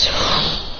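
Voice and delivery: short sigh. Acted. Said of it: "then he goes".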